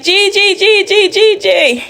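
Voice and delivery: put-on high child voice calling Gigi; little boy greeting his grandmother; excited little boy. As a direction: call it out like a happy small boy.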